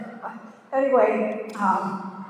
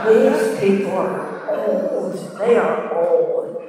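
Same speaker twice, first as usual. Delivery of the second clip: mock disdain; 2 semitones lower, 5 dB louder, slower than usual. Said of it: "I said".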